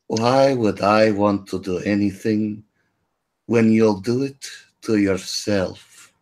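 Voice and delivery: lightly voiced sinister sweetness; a hint of menace under a pleasant tone. Healer Sasha mildly menaces the man, low and pleasant. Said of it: "evil look on her face, smiles pleasantly".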